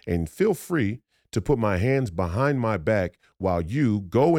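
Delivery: indignant telling-off with swooping emphasis; acted angry rebuke. Driver scolding a rookie cop with his gun drawn, angry. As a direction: chew out a rookie, stressing the curses. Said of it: "I'm the angry black guy".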